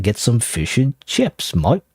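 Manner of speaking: slow, hammed-up Australian; attempted Australian accent. Gamer playing an Australian ordering food, poor Australian accent. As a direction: draw it out like a bad Australian impression. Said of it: "I can't do Australian accent".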